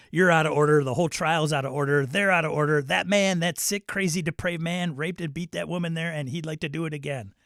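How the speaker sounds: loud, fast, furious yell at the judge; Pacino courtroom rant. Retold or imitated. Streamer quoting Pacino's courtroom speech, shouting. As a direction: rail at the whole court like Pacino. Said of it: "where Pacino says".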